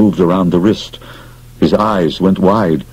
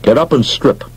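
commanding; 5 semitones higher than usual. Acted. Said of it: "he announced".

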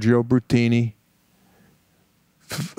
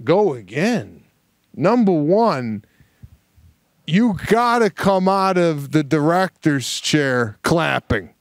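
slow, higher, incredulous protest; indignant disbelief; 4 semitones higher than usual. Retold or imitated. Actor protesting a retake, mock indignant. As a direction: drag out the outrage at being asked again. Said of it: "And I'm going".

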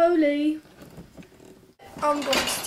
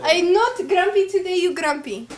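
playful retort in mock Arab accent; 2 semitones higher than usual. Bickering in jest over who is grumpy, mock Arab accent. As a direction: throw it back in a put-on Arab accent. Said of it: "I should do my Arab accent".

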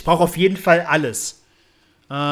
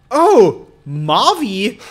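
loud, raised call for a companion; 5 semitones higher, 8 dB louder, much slower than usual. Real, not acted. Player looking for Marvin, loud calling. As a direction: call out to someone out of view.

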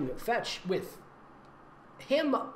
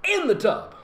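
put-on higher, louder girl's voice; Jessie's voice; 7 semitones higher, 5 dB louder than usual. Reading the sister's complaint aloud in her voice. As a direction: keep the sister voice going, a bit giggly. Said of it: "That's, that's her voice".

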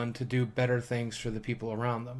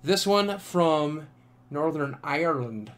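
attempted Irish accent; 3 semitones higher, slower than usual. Shown as a demonstration. Vlogger showing off a postcard from Northern Ireland, attempted Irish accent. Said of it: "That's my best I-, Irish accent".

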